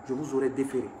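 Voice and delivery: lightly imitating the commissaire's Senegalese accent; a hint of a Senegalese police accent. The commissaire threatening the artist, in a light Senegalese accent. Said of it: "Avec l'accent sénégalais, je crois".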